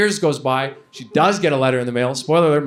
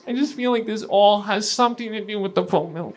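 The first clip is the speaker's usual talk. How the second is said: higher, hammed-up weepy sister; mock teary moon talk; 10 semitones higher than usual. Comic mocking his sister while she cries, higher and whiny. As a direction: parody a sobbing sister blaming the moon. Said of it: "She'll be bawling her eyes out".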